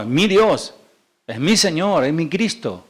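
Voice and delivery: "mi" stressed as one's own, against "tu". Shown as a demonstration. Preacher contrasting Saul's words with David's, stress on "mi". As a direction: lean on "mi" each time. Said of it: "no, no".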